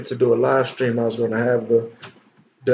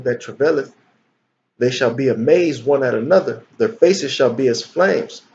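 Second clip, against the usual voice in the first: dramatic scripture reading. Acted.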